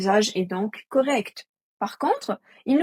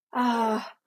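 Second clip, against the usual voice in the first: mock bored student; 3 semitones higher than usual. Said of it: "vous dites-vous".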